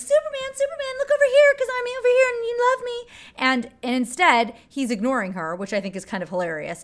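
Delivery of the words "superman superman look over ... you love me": very high, shrill, shrieking yell. Retelling a movie scene where Margot Kidder is yelling: imitating Margot Kidder yelling. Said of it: "she's yelling".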